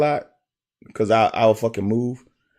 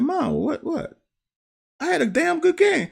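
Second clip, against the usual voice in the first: retold protest. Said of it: "I'm like".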